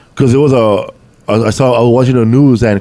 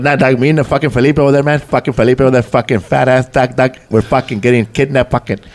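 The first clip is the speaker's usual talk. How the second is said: Felipe impression. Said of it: "Jeff Garcia used to do my voice".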